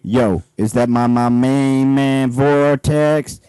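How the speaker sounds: put-on low and slow greeting to an old pal; slow low street guard voice. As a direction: drag out my main man slowly. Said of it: "You missed a my in there".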